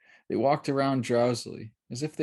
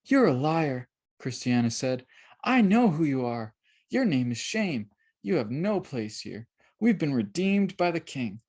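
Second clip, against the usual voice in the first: put-on girl ordering Shame to leave, firm; firm rebuke; 3 semitones higher than usual. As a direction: cast him out with conviction.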